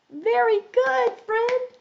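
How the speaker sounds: high, upbeat cheer; delighted praise. Real, not acted. Teacher praises a young child after practice, high and delighted. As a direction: praise in a high, encouraging lilt.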